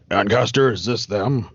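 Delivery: bearded man's voice, retried. Acted. Bearded man asks Ancaster about pursuers, putting on a low voice. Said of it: "try this again".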